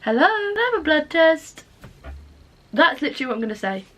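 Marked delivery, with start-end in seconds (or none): 0.0-1.6 bright, raised, assured phone request; confident phone voice. Shown as a demonstration. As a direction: ask smoothly like it's easy. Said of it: "No, this will be me".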